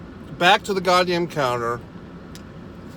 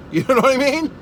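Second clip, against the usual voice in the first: laughing through the question, pitched up; amused laugh tossed to the listener; 7 semitones higher, 4 dB louder than usual. Real, not acted. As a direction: laugh it out as you ask. Laughing after own punchline.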